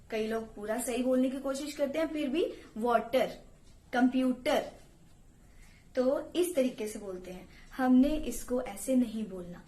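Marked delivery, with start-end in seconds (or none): 2.8-4.7 Punjabi tone. Shown as a demonstration. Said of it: "Punjabi tone में".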